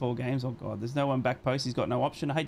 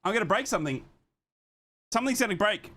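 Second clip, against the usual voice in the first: exasperated fuming; 7 semitones higher than usual. Real, not acted. Fuming after referee's decision.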